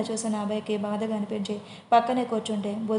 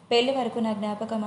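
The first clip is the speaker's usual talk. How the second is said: ordinary delivery, nothing marked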